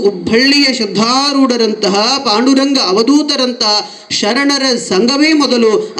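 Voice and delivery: slow, sing-song verse recitation; vachana recitation. Acted. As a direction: intone each line slowly with rolling cadence. (ನಿಧಾನವಾಗಿ ರಾಗವಾಗಿ ವಚನ ಪಠಣ)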